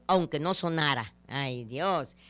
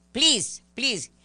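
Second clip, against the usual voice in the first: higher, louder pleading please; mock pleading; 6 semitones higher, 5 dB louder than usual. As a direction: beg with a hammed-up please. Pleading in English.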